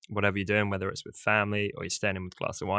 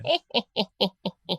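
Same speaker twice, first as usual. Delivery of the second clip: put-on high cackling old hag laugh; creepy witch cackle; 11 semitones higher than usual. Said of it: "can you do a creepy little witch laugh".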